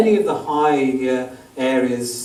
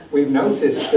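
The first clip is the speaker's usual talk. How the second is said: half-hearted mock American accent; reluctant, jokey stab at American; attempted American accent. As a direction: lightly try on an American accent. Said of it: "do I have to do an American accent".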